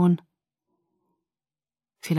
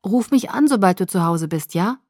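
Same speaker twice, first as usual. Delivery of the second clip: worried; 3 dB louder than usual. Acted. Bella worriedly asks sick Jake to call home, anxious. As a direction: ask him to call, worried for him. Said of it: "sagte ich besorgt".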